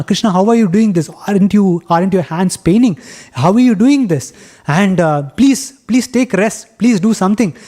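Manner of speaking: a mother begging her son to rest; lightly voiced anxious mother Yashoda; worried mother pleading.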